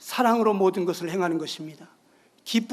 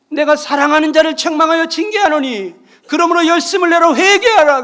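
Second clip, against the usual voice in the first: stern rebuke; 5 semitones higher, 10 dB louder than usual. Retold or imitated. Lord's rebuke quoted.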